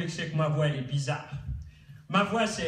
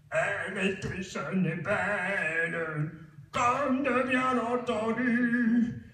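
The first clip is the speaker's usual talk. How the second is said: imitation de Michel Simon; slower than usual. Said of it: "entre l'acteur, Michel Simon".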